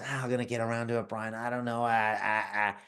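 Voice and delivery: softly mocking a hesitant, stalling excuse; mock hesitation. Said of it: "You're gonna pause".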